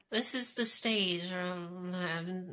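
slurred, slow, sleepy words; slurring. Real, not acted. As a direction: slur the words a little. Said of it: "Now you're slurring your words".

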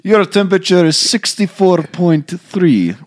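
slow, high, put-on device voice; thermometer readout. Priest mimicking the faulty thermometer gun, slow high readout. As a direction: announce it word by word like a gadget.

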